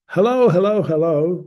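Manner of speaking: high hello hello read out; example quote. Shown as a demonstration. Teacher reads the sample quote aloud, high. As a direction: lift it high like a sample line. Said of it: "with a capital H".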